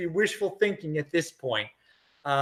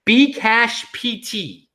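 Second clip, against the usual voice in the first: slow read-out; 3 semitones higher, much slower than usual. Shown as a demonstration. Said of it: "He said".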